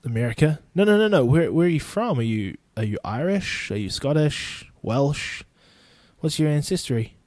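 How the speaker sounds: mock nosy questioner. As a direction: pretend to grill them about where they are from. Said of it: "I should probably say".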